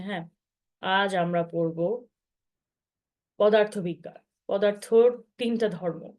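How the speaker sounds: a hint of a flat, droning schoolteacher, slow; monotone teacher. Shown as a demonstration. Teacher recalling a dull physics class, slow monotone drone. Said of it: "এই একইভাবে যদি বলে যেতে থাকি".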